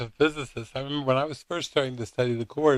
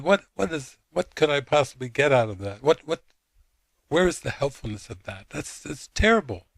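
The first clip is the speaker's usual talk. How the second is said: flustered, stammering mock indignation; really upset; 3 semitones higher than usual. Upset friend protesting the lesson, flustered and indignant. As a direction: imitate an exasperated friend, pitch jumping up. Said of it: "like, really upset".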